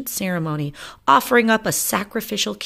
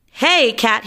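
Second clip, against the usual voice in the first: shout; 7 semitones higher, 5 dB louder than usual. Acted. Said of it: "he shouted".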